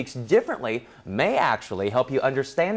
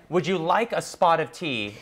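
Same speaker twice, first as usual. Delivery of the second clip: light put-on British accent. Shown as a demonstration. Host setting Sean a line to copy, British accent. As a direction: offer tea like a Brit. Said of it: "in British".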